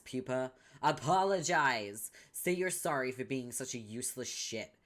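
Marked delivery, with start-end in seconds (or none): 0.8-4.3 yelled demand. Acted. Demanding an apology.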